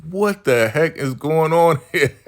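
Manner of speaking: high-pitched, hammed-up bewilderment; mock shock. Brian turned on by the sheriff, comically shocked. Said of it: "Brian's getting the shock of his life".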